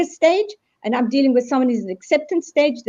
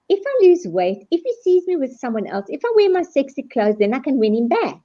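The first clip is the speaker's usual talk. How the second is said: higher, pleading mock voice; acted bargaining; 4 semitones higher than usual. Girlfriend scheming to win him back, higher pleading voice. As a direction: beg your way back in, voice lifted. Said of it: "Then the bargaining".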